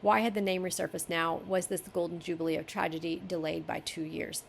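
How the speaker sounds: even reading voice; story narration. Acted. Editor reading the passage to the author, story narration. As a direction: read the paragraph through as prose.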